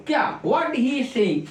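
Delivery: very slow, careful words; slow dictation. Shown as a demonstration. Teacher repeating the answer to pupils, very slowly. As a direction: spell it out slowly for the class. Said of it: "teacher dictating the answer".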